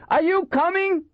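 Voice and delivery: high-pitched impatient yell. A narrator's reading. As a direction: yell it down to the stragglers. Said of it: "Waxy yelled".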